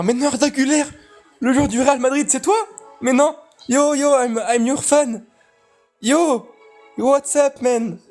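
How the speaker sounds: high, hyped-up fan voice; starstruck excitement. Pretend. Streamer to subscriber Arda Güler, mock starstruck excitement.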